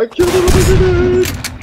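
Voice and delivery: shouting it again, high and loud; yelling across the room. Real, not acted. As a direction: yell it so they finally hear. Repeats unheard claim louder.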